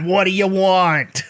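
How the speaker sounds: slow, drawn-out filmmaker impression; exasperated mock celebrity voice; Martin Scorsese. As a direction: demand it like a hammed-up director. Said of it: "Martin Scorsese says".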